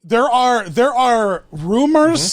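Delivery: drawn-out spooky "rumors"; slow ominous rumor voice. Acted. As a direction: tell it like a ghost story. Spooky mansion lore.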